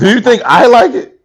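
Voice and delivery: high-pitched incredulous question; indignant retort. Real, not acted. Storyteller pressing co-host about mama stories, indignant retort. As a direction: protest it in disbelief.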